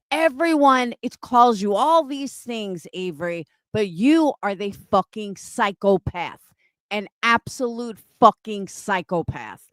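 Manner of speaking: real angry rant with emphatic, swooping words; angry tirade. Real, not acted. Streamer denouncing an accuser as a liar, angry. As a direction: tear into someone accusing them of lying. Furious direct tirade at Avery.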